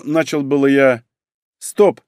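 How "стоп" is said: short, higher stop command; interrupting. A narrator's reading. Sister raises a hand to interrupt, firm. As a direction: cut in abruptly. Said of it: "подняла она руку".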